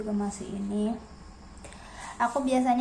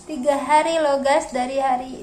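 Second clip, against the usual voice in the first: exasperated complaint; 2 semitones higher, 6 dB louder than usual. Real, not acted. Complaining rain for three days.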